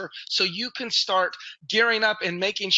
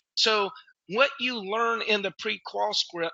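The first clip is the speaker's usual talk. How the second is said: ordinary talk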